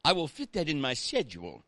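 put-on British accent. Shown as a demonstration. Preacher demonstrating a phrase for the congregation, British voice. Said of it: "say this in your best British voice".

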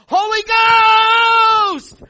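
huge high yell of joy. Retold or imitated. Father at the fence yelling at his racing daughter. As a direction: yell it across the track, arms waving. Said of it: "I start yelling".

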